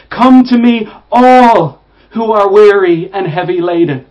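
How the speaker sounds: a preacher's booming call to the weary; proclaimed invitation. Acted. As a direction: call it out to the whole room. Proclaiming the verse with force.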